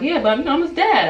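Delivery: high-pitched mock protest; imitated defensive dad. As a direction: mimic him protesting, pitched well up. Father defending himself, retold again.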